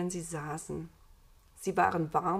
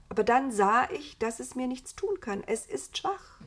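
lightly voiced Eva, higher; confiding Eva; 6 semitones higher than usual. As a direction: recount it in a raised character voice. Voices Eva telling of the encounter. (leicht erhöhte Eva-Stimme)

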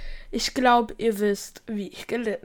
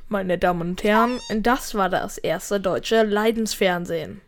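mock TV announcer; 4 semitones lower than usual. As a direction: close the show like a TV host. Mock TV sign-off.

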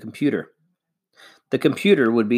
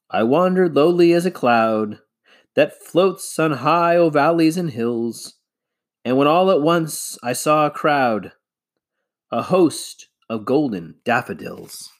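declaiming a poem, a touch louder; loud and clear; 4 semitones higher than usual. Acted. Father reciting a half-remembered poem, loud and clear. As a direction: recite it out to the whole valley. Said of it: "very loud and clear".

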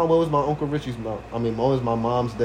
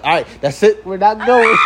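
grandma yelling; 6 semitones higher, 6 dB louder than usual. Retold or imitated. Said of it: "She was like".

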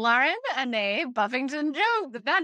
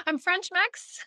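laughing through the words, slower; 5 semitones higher, slower than usual. Real, not acted. Guest laughing as she tells hosts her heritage, laughing. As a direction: giggle out your heritage.

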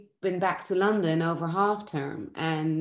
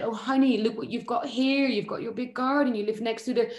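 upbeat coaxing, pitched higher; perky, higher mock cheer-up; cheery fixer; 6 semitones higher than usual. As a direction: talk a sad child out of it cheerfully. Mother cheering up a sad child.

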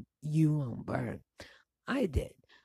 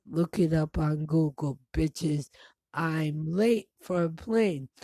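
annoyed retort; 6 dB louder than usual. Retold or imitated. Retold angry reply to agents.

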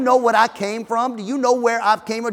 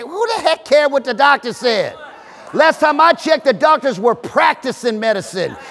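indignant shout; 5 semitones higher, 4 dB louder than usual. Real, not acted. Pastor scoffs at the doctor.

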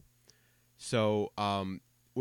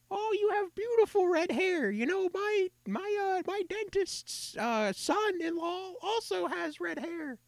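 put-on very high, slow, sweet old-lady voice; imitating a doting grandma, high and quavery; slower than usual. Redhead mimicking old ladies who gush about red hair, high old-lady voice.

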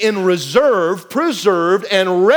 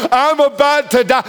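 tired voice of desperation; 5 semitones higher than usual. Retold or imitated. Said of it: "this tired voice of desperation".

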